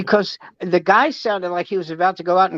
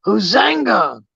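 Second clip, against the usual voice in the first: tribal yell; 3 semitones higher, slower than usual. Acted. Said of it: "all the tribesmen go".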